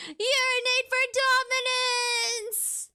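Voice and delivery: high and slow through giggles; laughing. Real, not acted. Repeating her joke to chat while laughing. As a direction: wheeze the words out laughing.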